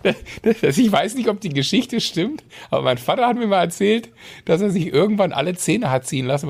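put-on old man voice. Keeps toothless old man voice.

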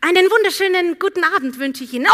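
bright, fast, overly polite greeting; sweet flight attendant. Retold or imitated. Greeting the rude passenger.

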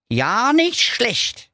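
high, mocking little dog, goading the wizard; cheeky dog voice. Dog Doktor Schulz goads the evil wizard, high and cocky.

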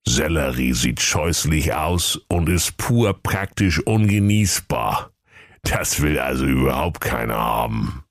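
lightly voiced oracle tortoise; blunt old tortoise. Tortoise explains celery to the dwarfs, old and blunt. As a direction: deliver the verdict as an ancient creature.

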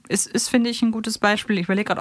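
ordinary delivery

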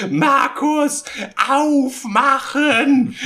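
high, loud calling through a door, stretched out; landlady banging on door. Retold or imitated. Landlady pounding on the trainees' door, high loud call. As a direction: yell it up high like an angry landlady. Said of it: "hämmert so an die Tür".

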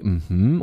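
short agreeing hum; a quick nodding mhm; listener's mhm. Shown as a demonstration. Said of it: "sowas wie".

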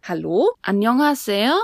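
Annyeonghaseyo with the ending lifted like a light question; slow, friendly greeting; rising question tune. Shown as a demonstration. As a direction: let the end of Annyeonghaseyo go up. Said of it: "geht der Buchstabe am Ende hoch".

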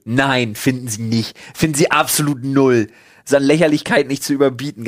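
lauter, empörter Wutausbruch; echte Wut. Real, not acted. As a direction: schimpf dich richtig in Rage. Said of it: "wo dieser Rage auf einmal herkam". (aufgebrachte Tirade gegen die Corona-Tänzer)

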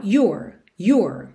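"Your" as jur with curled R; R at end. Shown as a demonstration. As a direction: focus on you, add R in "Your". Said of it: "ponho o R enrolado no final". ("Your" como you com R enrolado)

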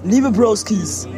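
slow and formal, letter-reading tone; slow solemn greeting. Acted. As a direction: draw it out like a dignified letter opening. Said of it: "Ganz anderer Vibe".

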